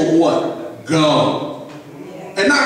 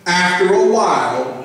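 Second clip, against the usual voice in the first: louder and clearer. Shown as a demonstration. Pastor repeating the line louder and clearer. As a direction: lift it so the back row hears. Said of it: "Let me say that louder and clearer".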